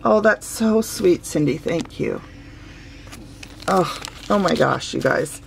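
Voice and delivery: moved to tears. Real, not acted. Thanking Cindy for the gift, choked and emotional. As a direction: barely get the thanks out.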